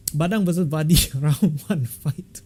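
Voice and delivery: mock fight announcer call. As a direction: round one fight.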